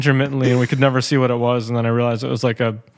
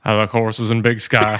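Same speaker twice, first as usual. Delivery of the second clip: put-on Montana accent; 3 semitones lower than usual. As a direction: answer like a plain Montana cowboy. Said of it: "my Montana accent".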